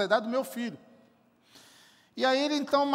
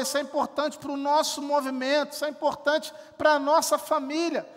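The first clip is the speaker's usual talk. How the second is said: building to a loud, impassioned climax; loving plea building; 3 semitones higher, 3 dB louder than usual. Retold or imitated. Voicing love that invests time, rising into a loud plea. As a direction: pour it out louder and louder from the heart. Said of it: "esse amor que está dizendo".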